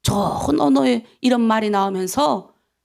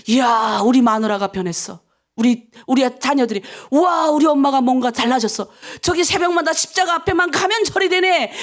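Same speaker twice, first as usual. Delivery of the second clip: acted wonder at a changed person; amazed family members. Husband and children marvel at the changed mother, acted amazement. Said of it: "너무 희한한 거예요".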